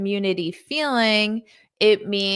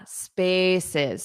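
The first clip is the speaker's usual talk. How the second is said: "spaces" with the first syllable stressed. Shown as a demonstration. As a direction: model "spaces", strong start and falling end. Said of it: "syllable stress on the first syllable".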